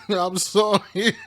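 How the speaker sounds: slow apology through real laughter; can't stop laughing while saying sorry. Real, not acted. Laughing at the crash clip, apologising while cracking up.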